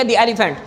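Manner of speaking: "the" said "dee" before "elephant"; "the" rhyming with "see". Shown as a demonstration. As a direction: say "the" with a long ee vowel. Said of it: "تو ہم اس کو دی پڑھیں گے".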